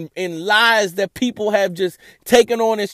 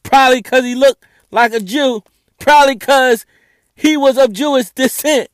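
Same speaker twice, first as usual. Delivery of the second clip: loud, raised-pitch exasperation; upset; 4 semitones higher, 6 dB louder than usual. Real, not acted. Host correcting false images of Jesus, loudly upset. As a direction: hammer it out, fed up. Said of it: "I'm just so upset".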